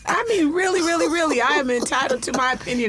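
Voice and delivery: high-pitched, impassioned protest; passionate. Real, not acted. Aunt defending her right to an opinion, passionate. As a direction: insist on it, worked up and high. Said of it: "I'm passionate about this".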